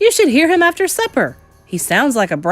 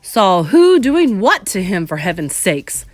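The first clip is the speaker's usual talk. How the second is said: louder, slow exasperated shout; 6 dB louder than usual. Acted. Father shouting at the grandmother, exasperated. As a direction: demand it in exasperation. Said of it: "shouted Mister Jenkins".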